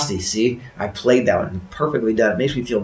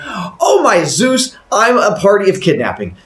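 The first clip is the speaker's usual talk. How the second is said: horrified realisation; 8 semitones higher, 4 dB louder than usual. Acted. Woman realising someone is trapped, horrified high wail. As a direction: gasp it out in mock horror.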